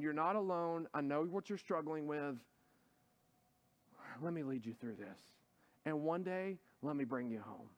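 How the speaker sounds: a shepherd calling someone home; tender voice of God. Acted. Jesus inviting the struggling church to come home, tender and soft. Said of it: "He's saying".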